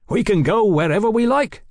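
high, loud, carefree delight; merry boast. A narrator's reading. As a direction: crow happily over your freedom. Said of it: "He laughed".

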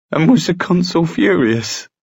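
high, eager question; delighted curiosity. A narrator's reading. Sophie asking the brothers about the consul, high and eager. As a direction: ask it high, keen to hear the gossip.

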